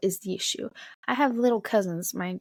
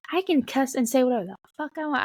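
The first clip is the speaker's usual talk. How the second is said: higher-pitched mock bratty boast; defiant kid; 6 semitones higher than usual. Young cousin talking back to an adult, mock defiant.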